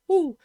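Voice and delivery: short, high "woo"; excited whoop. Real, not acted. Gamer catching himself getting excited on his video, excited whoop. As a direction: let out a quick, loud, high whoop. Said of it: "I get excited".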